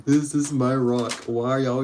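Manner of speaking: a hint of cartoon starfish complaining; mock Patrick. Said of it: "It's like".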